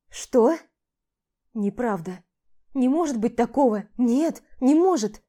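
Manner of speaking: stunned protest; wife denying the news in shock; shocked denial. Acted. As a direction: refuse to believe it.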